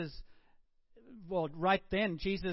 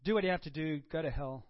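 curt, mock go-to-hell dismissal; dismissive brush-off; 3 semitones lower than usual. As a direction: toss the line away with mock contempt. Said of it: "I don't think Jesus said that with any sense of".

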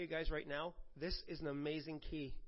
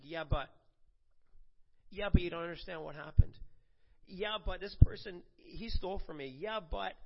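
louder, insistent yeah but, hammed up; mock excuse-maker; 4 dB louder than usual. Preacher imitating people who answer him with excuses, insistent mock. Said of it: "every second sentence is like".

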